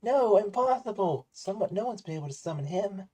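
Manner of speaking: lightly voiced shocked rival; a hint of stunned Kaiba, slowed; Kaiba impression. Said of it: "I was trying to quote Kaiba".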